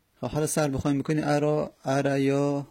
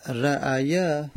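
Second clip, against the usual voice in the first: slow drawn-out word; much slower than usual. Shown as a demonstration. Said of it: "خب حالا".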